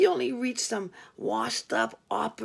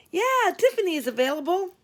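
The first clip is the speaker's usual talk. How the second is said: much higher and louder, bursting with relief; relieved; 8 semitones higher, 7 dB louder than usual. Retold or imitated. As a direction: blurt it out giddy with relief. Relief after dad scare.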